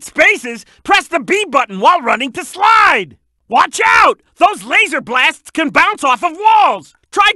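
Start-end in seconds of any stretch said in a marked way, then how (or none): 3.5-4.2 raised, high warning call; sudden call of caution; urgent warning. Acted. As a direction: alert a partner to incoming fire.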